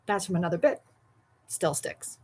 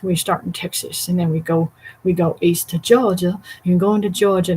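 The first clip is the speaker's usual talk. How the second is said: Southern US accent, getting louder toward Georgia; 4 dB louder than usual. Shown as a demonstration. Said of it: "I did a voice around, go around the world kind of voice thing".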